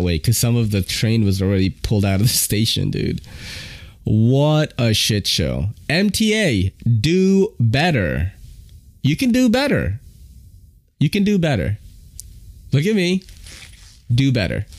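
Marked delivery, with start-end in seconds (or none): 4.0-14.7 calling out MTA. Real, not acted. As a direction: drag it out, fed up.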